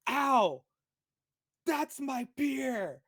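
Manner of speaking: high, loud pained yell, drawn out slowly; goblin yell. Acted. Goblin yelling about his spilled beer, high and slow. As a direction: yelp then whine, stretched slow. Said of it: "you hear him yell".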